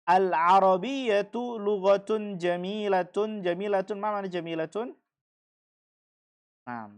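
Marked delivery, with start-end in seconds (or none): 0.0-3.4 slow and deliberate; model sentence. Shown as a demonstration. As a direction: read it slowly so students can follow. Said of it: "teacher models sentence for class". (pelan dan jelas seperti guru)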